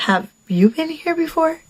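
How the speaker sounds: high, mocking imitation of a question; mimicked repetitive question. Woman puzzling over her date's question, mocking imitation. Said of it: "Why does he keep asking me".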